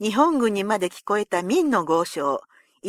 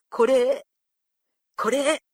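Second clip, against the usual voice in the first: gentle beckoning; 2 semitones higher, slower than usual. A narrator's reading. Tearful lord calling the thin retainer closer, gently. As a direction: beckon kindly with a little word. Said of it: "優しく招いて".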